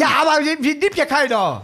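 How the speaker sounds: high, loud comic whine of protest; exasperated protest. Acted. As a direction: argue back, voice jumping way up. Acted escalating quarrel between comedians.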